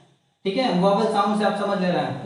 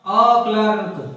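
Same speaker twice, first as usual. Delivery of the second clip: A clerk slow and a little louder; firm slow answer; 4 dB louder, much slower than usual. Shown as a demonstration. Teacher firmly giving the last answer to the class. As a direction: land the final answer. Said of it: "तो क्या होगा".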